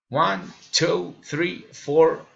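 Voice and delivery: "One, two, three, four" each lifted; rising list intonation. Shown as a demonstration. Learner demonstrating enumeration, rising intonation. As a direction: count with a small rise on "two", "three", "four". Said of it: "raising intonation".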